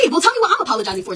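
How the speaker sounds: high, fast, laughing; laughing disbelief. Retold or imitated. Student demanding to know what she did wrong, laughing. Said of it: "So then I'm like".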